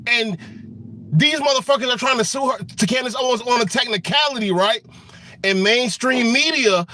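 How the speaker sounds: worked-up tirade that keeps climbing; getting animated. Real, not acted. Ranting to viewers about Candace Owens, heated and worked up. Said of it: "I was getting a little animated".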